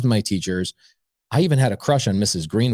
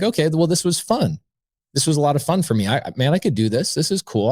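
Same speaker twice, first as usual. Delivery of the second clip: higher-pitched, pleased self-talk; retold upbeat realization, pitched up; feeling good; 5 semitones higher than usual. Leaving her house pleased with himself, feeling good. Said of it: "I felt good about it".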